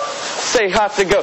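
cheerleader call, drawn out. Acted. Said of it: "Ohio State cheerleader uniform".

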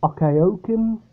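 Okeokim said as ock-ay-OH-kim; tentative Okeokim, ock-ay-oh-kim; alternative pronunciation. Shown as a demonstration. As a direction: open Okeokim with a short ock, questioning. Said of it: "not too sure how it's pronounced".

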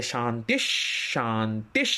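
শান্তিশ ending on a half sh. Shown as a demonstration. Teacher showing the sh in place of the visarga. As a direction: swap the visarga for a light sh. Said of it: "তালব্যস্বয় হসন্ত হবে".

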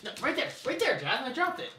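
soft high coaxing. Real, not acted. Guiding the dog to the treat.

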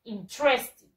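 interested shortened to "in-TRES-tid"; teacher's model "in-TRES-tid"; correct pronunciation. Shown as a demonstration. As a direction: drop the middle e in "interested". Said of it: "la pronunciación es así".

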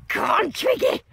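upbeat rallying call; excited cheer. Real, not acted. Urging friend on, now aloud.

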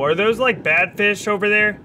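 high anxious question; wary and a bit alarmed; nervous. Real, not acted. Spots fish, alarmed.

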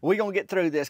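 a squeaky little pat on the back; a hint of a tiny squirrel soothing a friend; consoling squirrels. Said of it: "trying to console each other".

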